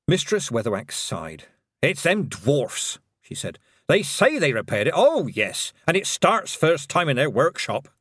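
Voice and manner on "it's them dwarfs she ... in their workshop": put-on slow, grumpy old witch; grumbling old witch. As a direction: grumble about the dwarfs. Granny Weatherwax grumbles.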